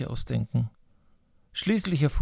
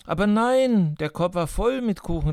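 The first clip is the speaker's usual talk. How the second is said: put-on boy exclaims; 6 semitones higher than usual. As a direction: blurt it out in quick defence. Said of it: "rief der Junge".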